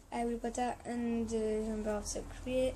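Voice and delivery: French-accented English. Real, not acted. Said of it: "Excusez vraiment moi pour mon accent".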